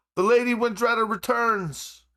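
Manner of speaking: very high, loud announcing yell. Voicing a steward announcing a lady's return: steward yelling. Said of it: "the steward yell".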